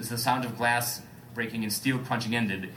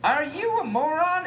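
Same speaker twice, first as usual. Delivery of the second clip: mumbled; 3 dB louder, slower than usual. Acted. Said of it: "Elliot mumbled".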